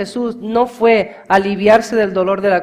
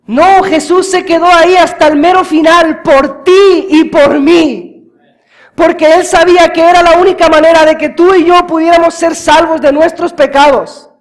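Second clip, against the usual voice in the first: louder and higher, sustained fiery preaching; full-force preaching; 9 semitones higher, 11 dB louder than usual. Acted. Preacher crying out to the congregation about the cross, fiery and loud. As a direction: drive the message home at the top of the voice.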